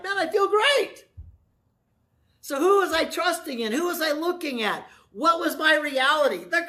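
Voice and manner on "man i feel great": high, laughing burst of relief; relieved and happy. Retold or imitated. The preacher after praying, high, laughing and relieved. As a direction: sound freshly lifted after praying. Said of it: "It's like".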